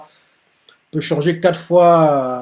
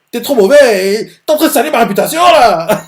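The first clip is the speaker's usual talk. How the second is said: louder, higher, fast put-on scold; annoyed scolding; 7 semitones higher, 7 dB louder than usual. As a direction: tell him off for ruining her name. Annoyed mentor scolds trainee.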